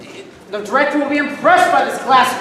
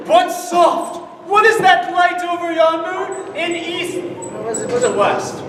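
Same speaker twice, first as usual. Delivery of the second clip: hammy Romeo. Acted.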